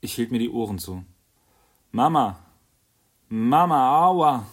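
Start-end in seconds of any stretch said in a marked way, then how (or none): 1.9-2.4 howling, very loud, high-pitched cry for mummy; bawling scream. A narrator's reading. Crying little girl screams for her mother, very loud. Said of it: "brüllte die Kleine". 3.3-4.5 even higher, very loud wail rising on Mama; bawling scream. A narrator's reading. Hurt little girl wails for her mother, higher and very loud. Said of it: "brüllte die Kleine".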